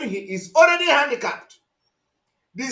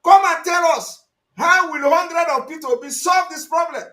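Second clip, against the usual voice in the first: mock demand; 6 semitones higher, 5 dB louder than usual. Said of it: "We say".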